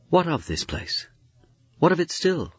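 high, raw lament; mournful cry. A narrator's reading. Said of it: "His cry a raw and mournful note".

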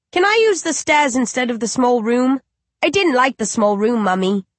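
put-on high, innocent little child asking; a small uncanny baby calling its mother. Undead baby asks its grieving mother, high and childlike.

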